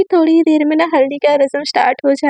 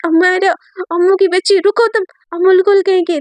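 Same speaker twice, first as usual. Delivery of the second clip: calling out in chase; 4 semitones higher than usual. Acted. Divya calls after Amayra during the chase, high playful shout. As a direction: shout after a friend who keeps running.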